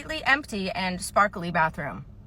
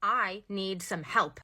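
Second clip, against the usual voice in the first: demanding customer; 4 dB quieter, much slower than usual. Acted. Customer character demanding help.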